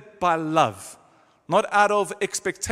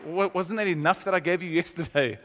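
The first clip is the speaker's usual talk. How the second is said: lightly acted weariness, as if asked once too often; mock exasperated sigh. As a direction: imitate a grudging giver. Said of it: "He's not gonna sigh and say".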